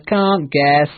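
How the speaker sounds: teasing joyful call; happy shout. Acted. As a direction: crow it again cheerfully. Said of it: "Peter shouted happily".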